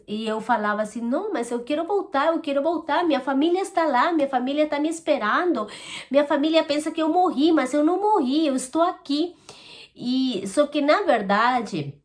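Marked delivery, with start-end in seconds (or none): 1.0-9.3 higher-pitched insistent mock plea; retold pleading. Woman retelling her plea to return to her family, pleading. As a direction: plead lightly to be let back, pitch raised.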